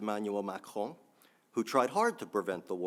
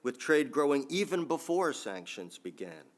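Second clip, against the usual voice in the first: quoting Putin; 5 semitones higher than usual. Retold or imitated. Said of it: "I don't do a good Putin accent".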